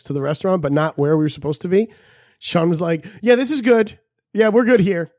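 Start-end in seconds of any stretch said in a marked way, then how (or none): 3.2-5.1 high, loud, carefree; goofy high voice. Retold or imitated. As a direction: sound blissfully clueless. Sean's oblivious high voice.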